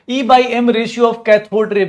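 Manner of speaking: high and loud, every word spelled out slowly; slow emphatic correction. Shown as a demonstration. Teacher to class, correcting: slow, loud, deliberate. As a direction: drill the full term E by M ratio slowly. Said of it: "E by M रेशियो मास नहीं".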